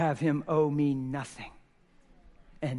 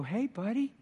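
genuine greeting; 7 semitones higher than usual. Retold or imitated. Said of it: "wonder if you can just go".

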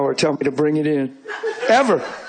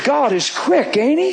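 laughing; 8 semitones higher, slower than usual. Retold or imitated. Laughing at the quick answer.

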